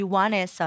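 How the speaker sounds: Vanessa said with a W sound, like "Wanessa"; American pronunciation. Shown as a demonstration. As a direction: open Vanessa on a rounded W glide. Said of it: "nos Estados Unidos, eles me chamavam de".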